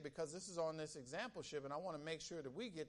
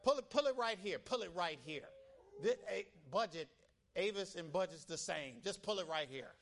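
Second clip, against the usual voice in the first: pushy rental lady; 5 dB louder than usual. Retold or imitated. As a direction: mimic the lady hollering at the car. Rental lady ordering him in.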